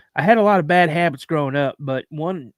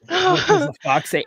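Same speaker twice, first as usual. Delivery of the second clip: squeaky high fox line; high-pitched mock fox voice; high squeal; 4 dB louder than usual. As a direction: pitch it way up like the meme. Repeating fox song line.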